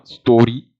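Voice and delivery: "story" said Scottish, with a long vowel; Scottish pronunciation. Retold or imitated. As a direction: imitate the Scottish way of saying "story". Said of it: "that, that pronunciation".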